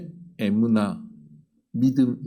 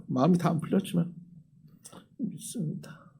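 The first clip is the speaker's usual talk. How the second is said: a soft, whispered "믿습니다" after a sigh; quiet confession; 4 semitones higher, 5 dB quieter than usual. Shown as a demonstration. Preacher showing the simple, quiet way to confess faith, whispered. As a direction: breathe out "믿습니다" as a near-whisper, not a shout. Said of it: "그냥, 하".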